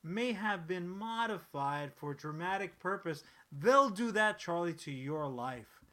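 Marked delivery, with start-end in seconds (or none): 0.0-3.2 disclaimer voice. Retold or imitated. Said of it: "they'll even say".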